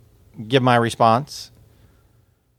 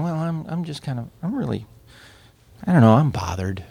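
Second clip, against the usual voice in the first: mild hesitant amiable voice; hesitant understatement. Shown as a demonstration. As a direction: mumble it like someone who won't admit anger. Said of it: "amiables who don't express".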